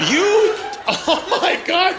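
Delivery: real laughter breaking the line; laughing hard. Real, not acted. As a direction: crack up mid-word. Laughing at audience member.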